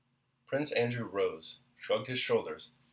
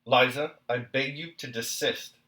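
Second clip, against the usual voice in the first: louder, firm demand; husband insisting, louder than before; emphatic; 4 semitones higher, 7 dB louder than usual. A narrator's reading. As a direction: lean hard on the name Liza. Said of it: "still more emphatically".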